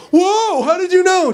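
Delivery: high, loud astonished outburst; mock amazement. Man offered a sandwich before hunger, mock amazed. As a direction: marvel as if she read your mind.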